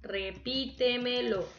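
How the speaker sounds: Repítemelo, syllable by syllable, PÍ stressed; stress before the third-last syllable. Shown as a demonstration. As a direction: sound out Repítemelo with a marked PÍ. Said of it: "Es sobre esdrújula".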